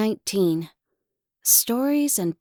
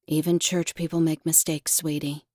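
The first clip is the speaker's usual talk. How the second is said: soothing; 5 semitones lower than usual. Acted. Mother soothes child.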